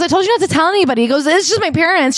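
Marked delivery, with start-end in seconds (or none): 0.0-1.0 high, fast exasperated wife voice; playful mock scold. Wife scolds, acted quarrel. 1.2-2.2 high sheepish excuse; lightly voiced defensive husband; mock defensive husband.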